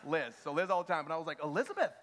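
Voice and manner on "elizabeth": mock-stern calling of a wife's full name; raised, exasperated reprimand, retold; retold scolding. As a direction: call her out as if she's in trouble. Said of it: "what I call her when she's in trouble".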